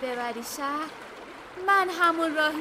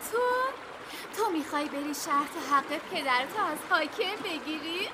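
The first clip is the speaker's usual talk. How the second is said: laughing mockery. The river mocking the pea's quest, laughing through the words. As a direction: talk through scornful laughter.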